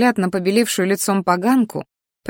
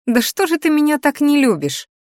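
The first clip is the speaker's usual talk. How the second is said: chuckling; 8 semitones higher than usual. Acted. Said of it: "хохотнула я".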